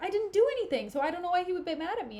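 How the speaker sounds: high-pitched, defensive mock complaint; mock protest. Desdemona insisting she did nothing wrong, high defensive protest.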